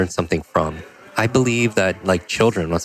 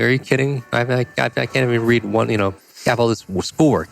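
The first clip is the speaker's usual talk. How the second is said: higher-pitched, stammering objection; incredulous protest; 5 semitones higher than usual. Retold or imitated. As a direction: protest an impossible demand, tripping over the words. Acted protest at reading challenge.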